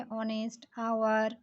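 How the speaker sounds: ऑनेस्ट and आवर both begun on vowels; silent H. Shown as a demonstration. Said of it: "एच का उच्चारण vowel type से".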